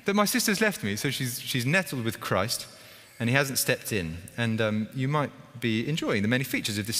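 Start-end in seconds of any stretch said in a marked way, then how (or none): 0.0-0.9 mock annoyed. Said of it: "She's also annoyed with Jesus".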